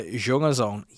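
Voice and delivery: slow mock German accent. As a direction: draw the German words out. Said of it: "he was probably like".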